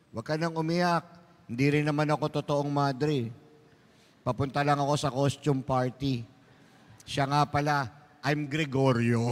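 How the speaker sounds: fake nun reveal. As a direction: drop the disguise and go gruff. Fake nun revealing he's a man. (pekeng madre, mababang boses lalaki)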